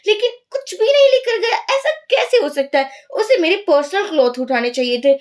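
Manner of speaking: high-pitched, indignant squeal of disbelief; indignant outburst. Acted. Nini complains to Nakan the thief took nothing, shrieking indignantly. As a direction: shriek like an offended diva. Actress outraged nothing was stolen.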